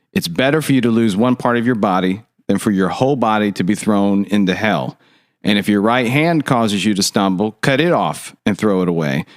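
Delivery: measured Bible reading aloud; scripture reading. Real, not acted. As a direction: read the verses out clearly and evenly. Reads scripture passage aloud.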